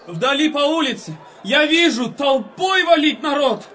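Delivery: fast, high calling out; excited calling out. Acted. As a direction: shout what you see coming. Calling out what they see.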